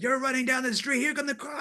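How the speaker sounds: very high-pitched yelling. Speaker recalls yelling to an actor while filming a chase, retelling a yell. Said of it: "I'm yelling at him".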